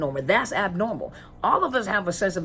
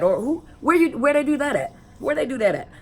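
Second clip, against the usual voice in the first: higher, louder slangy quip; lightly voiced millennial asking where they do that at; mock millennial slang; 7 semitones higher, 3 dB louder than usual. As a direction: toss it off like a young person's catchphrase. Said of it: "what did the millennials say".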